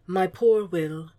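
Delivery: slow, understated sympathy; slow and gently consoling; tender murmur. A narrator's reading. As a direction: murmur it slowly, as if to comfort. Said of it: "Hannibal murmured".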